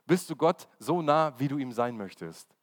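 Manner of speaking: slow down and lean into "Gott" at the start. Shown as a demonstration. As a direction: ask it again slowly and weightily. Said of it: "Das ist die Frage".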